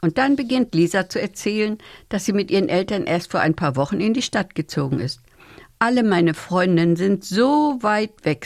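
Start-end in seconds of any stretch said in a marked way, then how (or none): 5.8-8.5 sad. Acted. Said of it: "sagt Lisa traurig".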